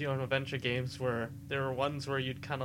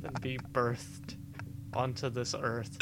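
gothic horror narration; 2 semitones lower than usual. Pretend. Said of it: "going very Edgar Allan Poe horror".

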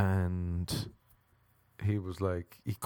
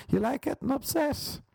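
high teasing jab. Acted.

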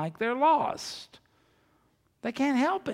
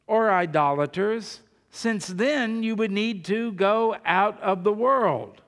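forceful, measured Bible reading; scripture reading; 6 dB louder than usual. Real, not acted. Preacher reads Paul's letter to the church, forceful scripture reading. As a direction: read the letter out emphatically, item by item.

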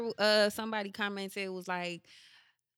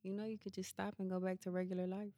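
devilish whisper; 8 dB quieter than usual. Acted. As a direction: voice a quiet little devil, hushed and insinuating. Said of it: "that devilish whisper that just be like".

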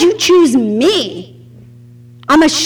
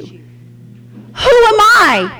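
slow high question; 6 semitones higher, much slower than usual. Shown as a demonstration. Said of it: "God said it over".

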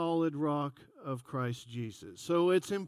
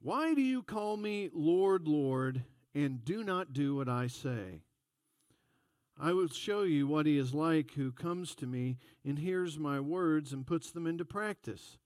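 measured, solemn Bible reading; scripture reading; 3 dB quieter than usual. Acted. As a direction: read God's word with reverence. Reads scripture.

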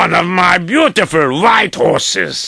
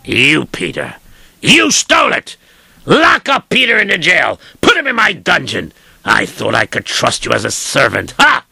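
accusing master; 4 semitones lower than usual. Acted.

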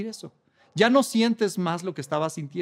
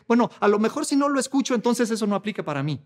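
dismissive mock believer; 4 semitones higher, 4 dB louder, faster than usual. Careless believer voiced in sermon.

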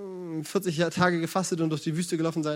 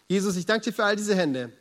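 prayer. Acted. Pastor prays aloud.

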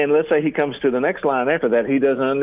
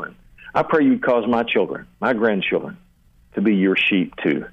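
spoken prayer; 2 semitones lower than usual. Shown as a demonstration. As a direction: pray it sincerely, as if alone with God. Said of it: "you talk to God about whatever comes to mind".

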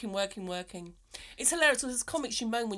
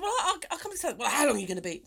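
imitating a touch of impatience, louder on the question; mock grumpy; 3 semitones higher, 3 dB louder, faster than usual. Woman retells her friend's reply about meeting at Southwark, mock grumpy. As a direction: put on a mildly grumpy retort. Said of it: "I wasn't that grumpy".

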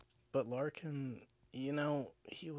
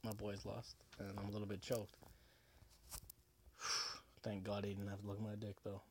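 tipsy, loose slurred talk; a few drinks in, words sliding. Real, not acted. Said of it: "And I'm drinking right now".

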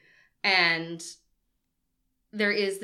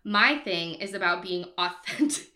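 quoting while laughing. Retold or imitated. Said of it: "She says".

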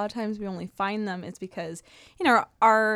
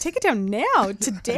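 firm demand; 5 dB louder than usual. Retold or imitated. Canadian guest tells a thief what she'd demand, firmly. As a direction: insist they take it down right now. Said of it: "I'm Canadian too, but I'd be like".

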